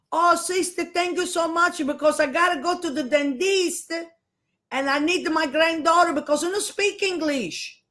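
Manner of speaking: high, loud put-on innocent old lady voice; high, loud, syrupy granny voice; grandmother's sweet act. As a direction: play the sweet helpless grandma for the nun. Grandmother voiced fooling the nun.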